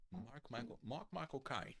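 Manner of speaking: high, soft attempt at a Cockney accent; Michael Caine. Shown as a demonstration. Practising the actor's accent for the listeners, Cockney impression. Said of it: "how you do a Michael Caine accent".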